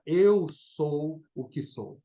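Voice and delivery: slow, weighty divine pronouncement; solemn I AM, drawn out word by word; voice of God. Acted. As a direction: speak as God declaring his name. Preacher voices God's self-name.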